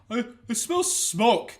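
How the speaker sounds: slow, drowsy worried mumble; half-asleep first warning; sleepy brother. Retold or imitated. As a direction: brother warning in the dark, slowly. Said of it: "I just hear from the other one".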